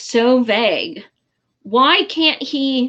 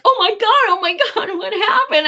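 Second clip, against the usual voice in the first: high alarmed voice, much higher, a laugh at the end; mock the husband's panic, pitched way up; mimicking husband; 10 semitones higher than usual. Husband panicking at her crying, high mock alarm. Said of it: "he's like".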